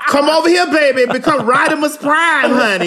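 giggly come-hither call; laughing invitation. Pretend. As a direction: tease him over with a laugh. Calling Shia over, laughing.

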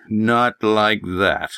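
very slow, talking-down farmer; condescending old prospector. Acted. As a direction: spell it out like to a fool. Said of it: "His voice was condescending".

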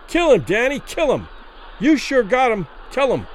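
high, excited egging-on; bloodthirsty ringside cheering; frenzied crowd yell. A narrator's reading. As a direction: urge the fighter on from the stands.

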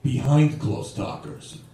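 slow, low mock-grave reveal; suddenly serious. Would-be robber revealing his joke to the comic, suddenly serious. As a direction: deliver the answer slowly, in earnest. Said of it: "he gets serious all of a sudden".

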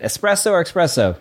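first "Espresso" with S, second "espresso" with X; contrasting pronunciations. Shown as a demonstration. Looking up which is it, both pronunciations contrasted. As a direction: set ess-presso against ex-presso in "Espresso or espresso". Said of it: "Which is it?".

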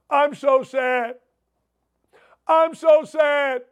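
slow, whiny parody of despair; mock whining liberal. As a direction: drag it out like a mock sob. Mocking a crying liberal.

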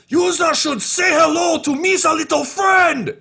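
very high, very loud alien crime boss shout; Two Two Cups yelling. Acted. Crime boss firing grenades into his mansion, high mad shout. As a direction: bellow it while firing grenades.

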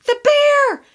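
put-on terrified crying child; crying child scream. A narrator's reading. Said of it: "all screaming at once".

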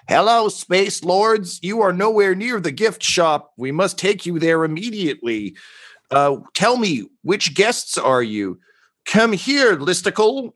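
sing-song eager cult greeting; robed figures. Acted. Robed peasants greeting the Space Lords, high and eager. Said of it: "they're like".

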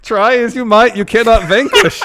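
high, loud barker proclamation; carnival barker. Pretend. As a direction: proclaim like a showman. Barker bit, other host.

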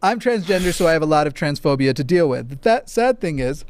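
reading through heartburn; a touch of heartburn discomfort. Real, not acted. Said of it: "I got a little bit of heartburn".

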